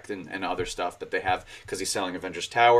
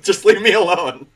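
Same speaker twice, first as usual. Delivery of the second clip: exasperated villain; 8 semitones higher, 8 dB louder than usual. Retold or imitated. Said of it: "now I'm becoming a Spider-Man villain".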